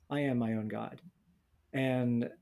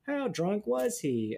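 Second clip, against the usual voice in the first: eager audience; 8 semitones higher, slower than usual. Retold or imitated. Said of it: "they're like".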